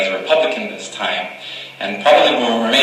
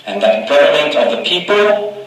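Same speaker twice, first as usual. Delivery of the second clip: rising to a ringing close on "people"; building oratorical climax; 5 semitones higher, slower than usual. Acted. Climax of the address.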